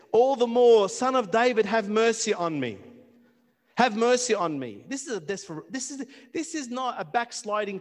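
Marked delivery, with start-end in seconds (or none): 0.1-4.8 crying out. Acted. Bartimaeus crying out for mercy.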